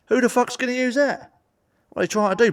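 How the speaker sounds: incredulous outburst. Real, not acted. Ranting about Poland's airport.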